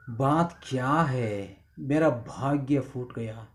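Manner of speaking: low, soft grieving voice; pained lament. Acted. Father voicing his despair, low and pained. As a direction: mourn the broken fate quietly. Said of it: "बहुत दर्दनाक से जो अपने दिल की आवाज़ सुनाता".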